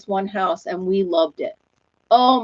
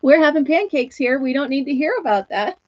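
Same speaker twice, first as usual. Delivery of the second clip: mock protest; 5 semitones higher than usual. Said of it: "And I'm like".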